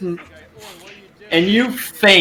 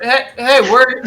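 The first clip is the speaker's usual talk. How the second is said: high alarmed NPC; 5 semitones higher than usual. Acted. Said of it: "He's like".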